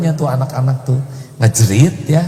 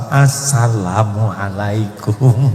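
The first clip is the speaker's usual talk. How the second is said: forced greeting; much slower than usual. Acted. Forced friendly greeting to rival.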